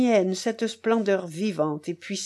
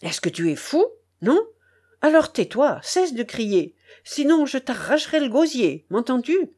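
stern and angry; 4 semitones higher than usual. Acted. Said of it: "sévère et courroucé".

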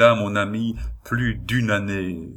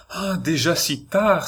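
sudden startled cry, much higher; alarmed cry; 9 semitones higher than usual. A narrator's reading. Anna sees the late hour on her watch, crying out alarmed. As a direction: she gasps out the hour in fright. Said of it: "s'écria-t-elle".

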